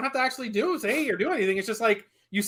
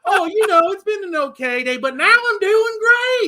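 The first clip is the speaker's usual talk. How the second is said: higher, slowing put-on Southern accent; 10 semitones higher than usual. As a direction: stretch "great" like a newly rich Southerner. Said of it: "Like, you can".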